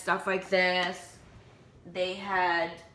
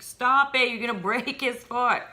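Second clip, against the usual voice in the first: higher-pitched mock panic; freaking-out husband; 6 semitones higher than usual. Retelling husband's worry over the baby's foot in the slipper, mock freak-out. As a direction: imitate a husband urgently telling you to stop. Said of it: "freaking out".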